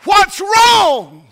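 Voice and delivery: mock question. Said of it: "you don't ask a woman that's squalling".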